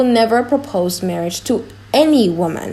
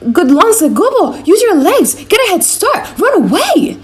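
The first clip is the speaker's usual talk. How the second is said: loud, higher coaxing devil; tempting devil; 10 semitones higher, 5 dB louder than usual. Acted. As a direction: egg him on like a devil at his elbow. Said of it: "He keeps saying".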